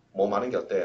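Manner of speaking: soft, easy suggestion; gentle suggestion. Shown as a demonstration. 올바른 해석을 보여주는 선생님의 부드러운 권유. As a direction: offer it kindly. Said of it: "라는 표현입니다".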